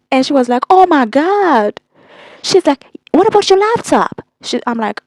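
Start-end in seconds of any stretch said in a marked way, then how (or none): 0.7-4.2 a lightly voiced worried mother; imitating mom. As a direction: stretch out mom's gasp, then ask up high.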